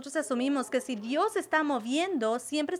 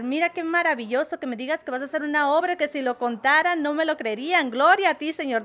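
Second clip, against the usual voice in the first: eager, rising praise, a bit louder; excited Habacuc; 2 semitones higher, 3 dB louder than usual. Retold or imitated. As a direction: gush with delight at God's promise. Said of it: "es que me emocioné con tu respuesta". (Habacuc imaginado, emocionado y alabando)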